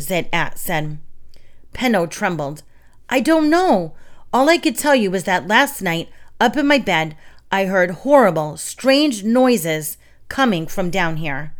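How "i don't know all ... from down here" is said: put-on trembling baker telling the children of the noises; frightened. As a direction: tell it like he's still scared.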